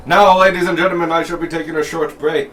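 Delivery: high, loud ringmaster call; ringmaster announcing. Acted. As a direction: address the crowd like a ringmaster. Showman announces a break.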